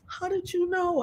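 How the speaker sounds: imitated amazed bystander; awed question. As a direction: ask softly in wonder. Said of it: "some people were like".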